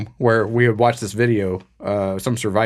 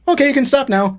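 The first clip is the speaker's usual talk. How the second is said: high sing-song; 14 semitones higher than usual. Retold or imitated. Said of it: "she was like".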